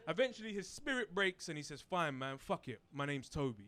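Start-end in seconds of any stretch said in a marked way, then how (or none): 1.8-3.6 defeated mumble. Retold or imitated. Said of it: "He doesn't say it like that".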